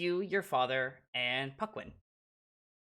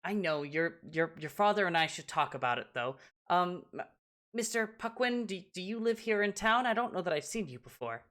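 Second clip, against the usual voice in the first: lightly voiced mother, pitched higher; hesitant parent turning courteous to a newcomer; cautious mother; 5 semitones higher, faster than usual. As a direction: politely sound out a stranger, higher voice. Voices mother questioning the stranger.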